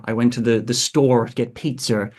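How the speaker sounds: General American with a tough R in "store"; American accent demo. Shown as a demonstration. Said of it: "being very tough on, on the R".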